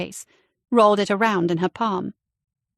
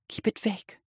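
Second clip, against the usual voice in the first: inner voice; 8 dB quieter than usual. A narrator's reading. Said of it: "she told herself".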